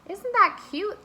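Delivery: high, excited little squeal; delighted. A narrator's reading. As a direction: gush over how cute it is. Arnie delighted being lifted.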